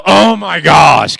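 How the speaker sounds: slow, drawn-out giveaway gasp; a hammed-up reveal of surprise; stretched mock "oh my gosh" to show what not to do. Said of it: "you cannot go".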